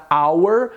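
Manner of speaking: "hour" said as if it had no H; "hour" with the H fully dropped; silent H. Shown as a demonstration. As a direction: start "hour" on the vowel, like "our". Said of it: "como se não existisse a letra H".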